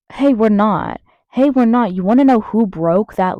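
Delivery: loud, heated correction; angry confrontation. Real, not acted. Confronting people boasting about America, angry confrontation. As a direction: cut in loudly to set them straight.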